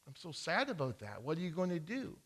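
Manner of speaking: hushed sympathy; sympathetic. Acted. Farmer softly sympathizing with robbed neighbor. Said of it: "he felt terrible".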